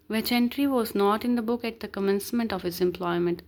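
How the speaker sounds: slow, deliberate reading of legal text; measured recital of the law; reading the statute. Acted. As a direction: read each word out slowly like dictation.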